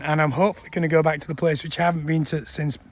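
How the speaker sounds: talking through hiccups; words broken by a hiccup. Real, not acted. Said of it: "Sorry, I've got hiccups".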